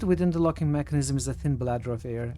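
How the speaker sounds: measured storyteller reading aloud; game text narration. A narrator's reading. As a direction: read it out evenly, each phrase falling at the end.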